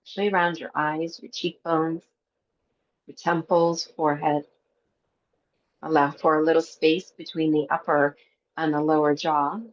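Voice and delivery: calm, even meditation guide with long pauses; guided meditation. Acted. Teacher guiding a breathwork class before Yoga Nidra, guided meditation. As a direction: lead them gently into the breath, leaving space between phrases.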